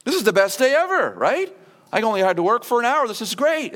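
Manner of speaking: high, fast, thrilled voice of the lucky laborer; mock ecstatic. Late laborer gloats over full pay, high and fast. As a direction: bubble over like a worker paid a full day for one hour. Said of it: "You're gonna be ecstatic".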